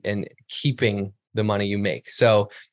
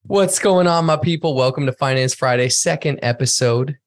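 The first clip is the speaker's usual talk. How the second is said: excited greeting; 3 semitones higher, 4 dB louder than usual. Real, not acted. Live show opening greeting.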